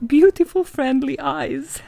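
dreamy. Acted. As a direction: linger on the lovely eyes. Reading the story dreamily.

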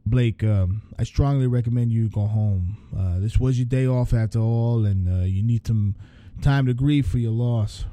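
a hint of a calm sincere boss; lightly voiced Rick, gently urging; Rick's voice, sincerely sending her home. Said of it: "Rick stated sincerely".

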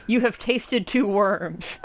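"tasted two worms" slow, with swapped first sounds; spoonerism. Retold or imitated. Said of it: "Thinking of the Spoonerisms".

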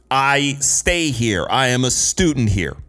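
slow, emphatic retold protest; retold yelling back. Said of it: "I yell back at the man".

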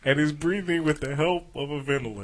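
stifled laugh reading news; reading while suppressing a laugh; holding back laughter. Real, not acted. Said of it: "you trying not to laugh while I read that".

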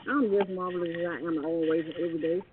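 muffled, like through water; underwater. Real, not acted. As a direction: voice sounding underwater. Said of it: "why I sound like you underwater".

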